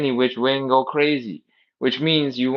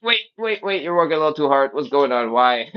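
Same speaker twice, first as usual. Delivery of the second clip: alarmed body voice; 4 semitones higher, 4 dB louder than usual. Retold or imitated. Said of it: "your whole body is locked up and going".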